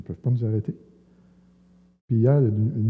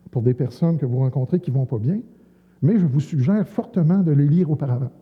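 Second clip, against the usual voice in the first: a touch louder, formal ceremonial tone; mock official address; 3 dB louder than usual. Preacher formally presents books to two police officers, mock-solemn. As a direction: hand it over like an official ceremony. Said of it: "je dis officiellement".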